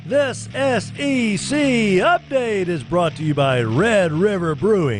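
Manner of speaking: slow booming sponsor read; slow, big announcer voice for the sponsor. Acted. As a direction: sell it like a radio spot.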